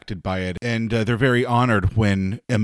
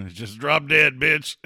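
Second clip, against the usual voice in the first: mock sass; 5 semitones higher, 4 dB louder, slower than usual. Joking retort about a character.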